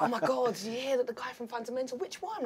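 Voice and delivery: put-on high, excited girly gossip; mock the giddy shop girls buzzing about him. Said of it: "was like".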